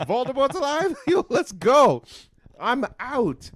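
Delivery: high, loud mock panic; hammed-up alarm, ready to flee; panicked. Character panicking again.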